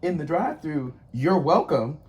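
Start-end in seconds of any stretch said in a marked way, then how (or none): 1.1-2.0 pointed, louder sarcastic thanks-reply; passive aggressive. Shown as a demonstration. Customer answering a drive-through worker who never said thanks, passive aggressive. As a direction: land it as a pointed jab. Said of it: "it feels passive aggressive".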